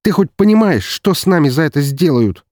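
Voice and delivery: high, loud frightened demand; a frightened brother warning him on the phone; panicked. Acted. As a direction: press him hard, scared of the consequences.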